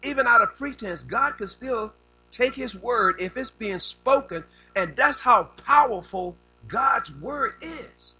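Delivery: emphatic preaching. Real, not acted. Preacher declaring God's power to the congregation, emphatic preaching. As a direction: drive the point home, slowing on key words.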